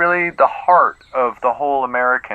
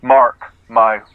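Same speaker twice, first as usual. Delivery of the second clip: grandiose; 3 semitones higher, slower than usual. Acted. Actor's grand pronouncement.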